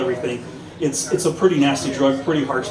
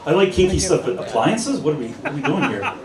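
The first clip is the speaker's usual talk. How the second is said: laughing disbelief; 4 semitones higher than usual. Retold or imitated. Baffled by appliance photo request.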